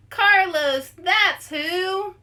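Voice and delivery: high, loud, excited shout; excited cheer. Acted. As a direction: cheer his name like a fan. Friends cheering for Carlos.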